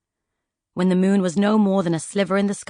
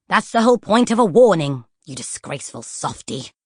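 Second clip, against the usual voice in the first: scorn the softy; scornful Poisons. Acted. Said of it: "said Poisons".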